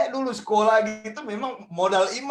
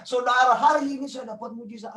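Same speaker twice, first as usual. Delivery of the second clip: mock testimony; 5 semitones higher than usual. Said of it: "banyak kesaksian begini di gereja".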